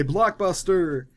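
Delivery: slow, drawn-out name; Blockbuster. Acted. Blockbuster says only his own name, slow and drawn out. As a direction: stretch the word out, pitch swooping up. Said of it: "Blockbuster's gonna say".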